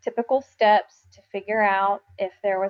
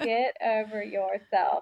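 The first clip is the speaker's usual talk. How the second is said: dry, deliberate scolding; said to herself, slow and firm; slow, firm get over yourself; 5 dB quieter, slower than usual. Shown as a demonstration. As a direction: press the words out slowly.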